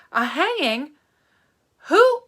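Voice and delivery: rising to a very high loud cry; high alarmed question; shocked. Acted. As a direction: horror at the news. Catherine shocked by hanging.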